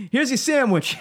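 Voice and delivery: mild mock deli guy; a touch of curt server; gruff counter guy. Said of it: "He's like".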